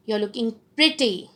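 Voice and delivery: admiring tone, pretty given full weight; sincere compliment. Shown as a demonstration. Lecturer showing students tone matching words, sincere compliment. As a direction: compliment them as if you mean it. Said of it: "my tone of voice is going with my words".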